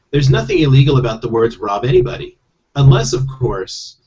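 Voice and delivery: lightly voiced talking toad; a hint of a legal-minded toad. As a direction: explain as a mildly put-on toad character. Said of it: "skipping from that character to Toad".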